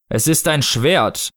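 slow, deliberate statement; Snow Father figure. Acted. Snow Father answering a panicking mother, slow unmoved voice. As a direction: state it ponderously, word by word.

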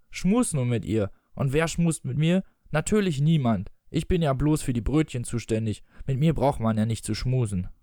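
expressive audiobook reading with voiced dialogue; story narration. A narrator's reading. Reading Peter Pan aloud to listeners, story narration. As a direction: read the tale aloud, measured and articulated.

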